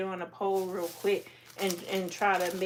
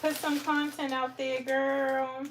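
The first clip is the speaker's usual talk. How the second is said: hoarse hype voice; 4 semitones higher than usual. Real, not acted. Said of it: "getting all hoarse from shouting".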